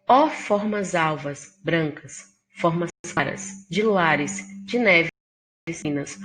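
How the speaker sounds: measured poetry reading; poem recital. Acted. Teacher reciting Antífona to students, measured.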